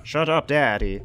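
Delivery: put-on bratty teen. Teen talks back to dad.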